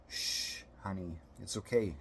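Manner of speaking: a long shh, then gently reassuring; soothing hush. A narrator's reading. Mother soothing her crying son, tenderly.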